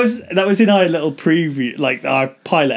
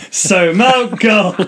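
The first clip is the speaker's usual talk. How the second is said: slow host prompt; 4 semitones higher, 4 dB louder, much slower than usual. Retold or imitated. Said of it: "compilation of me just going".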